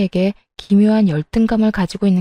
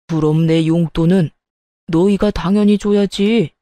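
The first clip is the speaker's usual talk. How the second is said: put-on father-in-law voice, monotone and insistent; demanding father-in-law; 3 semitones lower than usual. Father-in-law demands allowance from the couple, entitled grumble. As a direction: claim the allowance as an entitled elder.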